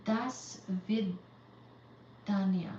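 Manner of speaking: "Das vidania" said very slowly, syllable by syllable; slowly sounded out. Shown as a demonstration. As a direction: drag out each sound of "Das vidania" as if unsure. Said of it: "sounding out Russian goodbye".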